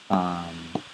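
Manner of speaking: hoarse, raspy tired voice; rough scratchy voice trailing off. Real, not acted. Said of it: "Excuse me for my raspy voice".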